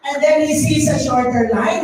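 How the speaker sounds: usual speaking voice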